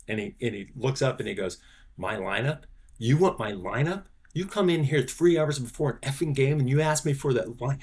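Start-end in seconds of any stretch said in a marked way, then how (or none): 2.0-7.8 imitating a furious old manager, building up; retold angry rant. Baseball manager yelling at a rookie intern, mock furious rant. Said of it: "yelling at me".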